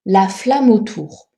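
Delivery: "flamme autour" linked as fla-mo-tour, no E; mute E elided. Shown as a demonstration. Teacher showing elision before a vowel, E of "flamme" silent in "flamme autour". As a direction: run "flamme" straight into "autour", slowly. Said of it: "On ne prononce pas le E".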